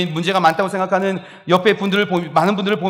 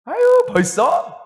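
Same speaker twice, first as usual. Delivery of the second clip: high, slow amazed "벌써?"; surprised gasp; 14 semitones higher, much slower than usual. Retold or imitated. Neighbor marveling at the baby's first word, high amazed. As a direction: marvel as if the baby just spoke.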